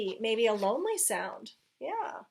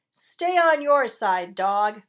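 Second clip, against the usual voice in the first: gruff warning; 8 dB louder than usual. A narrator's reading. Rat greeting dog with his usual warning, loud.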